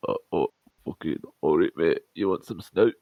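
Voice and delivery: lightly put-on English accent; mock English accent, quick stumbling start; British accent. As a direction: imitate a matey English lad. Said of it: "here's my British accent".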